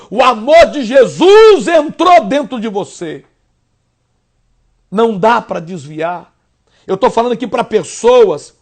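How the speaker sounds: fervent pastor preaching to the flock. Acted. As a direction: preach it out with rising fire. Pastor preaching to radio listeners.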